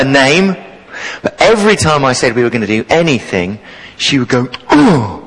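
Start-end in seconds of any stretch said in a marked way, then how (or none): 4.7-5.2 a mild mock groaning "Oh"; half-hearted imitation of a bored pupil; loud groan. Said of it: "like that, really loudly".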